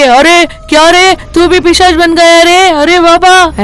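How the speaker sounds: storyteller's hammed-up fright, lightly voiced; frightened shout. Thakur sees Ranga turned demon, mild mock yell. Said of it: "ऐसे जोर से चिल्लाते हैं".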